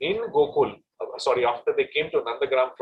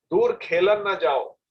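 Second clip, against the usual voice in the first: Braj Bhasha line; 5 semitones higher, 3 dB louder than usual. Acted. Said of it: "In Braj Bhasha, she said".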